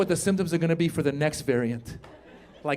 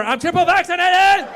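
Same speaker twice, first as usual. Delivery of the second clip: gleeful boast; 11 semitones higher than usual. Acted. Licker answering the barista, gleeful high boast. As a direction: crow it at the top of your range.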